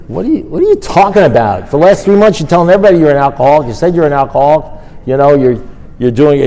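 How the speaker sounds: mock exasperated yell at a friend; incredulous outburst. Sponsor scolding his sponsee, retold incredulous shout.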